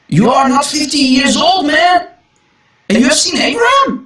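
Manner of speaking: rising to a fast, shocked shout; shocked disbelief. Retold or imitated. Jews challenging Jesus about Abraham, in a shocked shout. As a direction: voice the stunned crowd challenging him. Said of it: "Then the Jews said to him".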